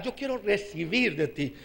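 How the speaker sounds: low, soft prayerful plea; subdued plea. Retold or imitated. Preacher retelling his own prayer to the Lord, subdued plea. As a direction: say it softly, as if privately to God.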